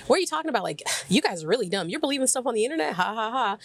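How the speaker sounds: high, scoffing put-down ending in a fake laugh; mocking scorn. Filmmaker mocks the teens, scornful and high. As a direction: sneer at them as dumb believers of the internet. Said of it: "He's like".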